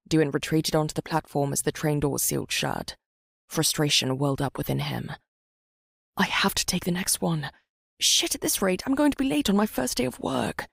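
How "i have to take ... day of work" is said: frantic. Acted. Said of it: "Duin thought frantically".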